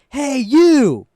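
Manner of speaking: high, loud hail down the street; retold yell. Biker down the street calls to the boy, high retold yell. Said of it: "He yelled at me".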